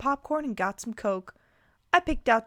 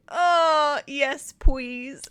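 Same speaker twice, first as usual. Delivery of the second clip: put-on higher, louder toddler pleading; three-year-old; 4 semitones higher, 5 dB louder, much slower than usual. A narrator's reading. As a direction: whine out a please like a little kid. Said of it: "I say like a three-year-old".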